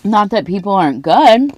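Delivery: talking while crunching ice; words round a mouthful of ice; chewing ice. Real, not acted. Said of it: "like, I'm chewing my ice".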